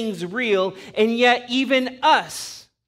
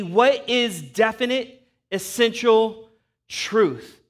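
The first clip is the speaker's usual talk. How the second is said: Pilate asking earnestly; slower than usual. Retold or imitated. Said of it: "he is asking Jesus specifically".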